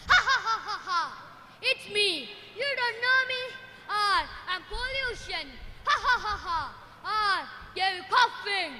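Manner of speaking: evil laughing Pollution, gloating; gloating villain. Acted. Pollution boasting to its victim, hammed-up evil laughter.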